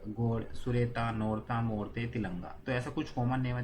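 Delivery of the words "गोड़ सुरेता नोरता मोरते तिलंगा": गोड़, सुरेता said slowly, each name drawn out; slow spelled out. Shown as a demonstration. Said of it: "देखो ताता पीछे लग रहा है ना". (धीरे-धीरे, हर नाम अलग करके)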